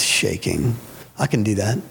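low, dismissive scoff as the pastor; understated low mockery; mocking pastor. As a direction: scoff low, as if it's nothing. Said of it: "he stepped out into a place of mocking".

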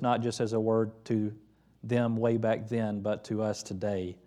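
pastor praying with the congregation; prayer. Acted. Leads closing prayer.

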